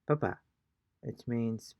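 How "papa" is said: papa short and high, no weight on the final A; papa as the potato word, end left unstressed; even stress. Shown as a demonstration. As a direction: say papa quickly, higher, without stressing the end. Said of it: "emphasis on any particular letter".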